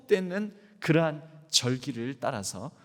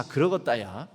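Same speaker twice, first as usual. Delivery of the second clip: Jeolla "그러겄다야" said low with a rising end; Jeolla dialect; 5 semitones lower than usual. Shown as a demonstration. Preacher modelling God's agreement for repetition, Jeolla rising. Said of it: "따라서 한번 해보시겠습니다".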